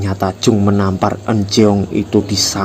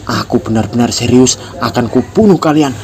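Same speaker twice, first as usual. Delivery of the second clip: threat; 3 semitones higher than usual. Acted. Jung threatens the class.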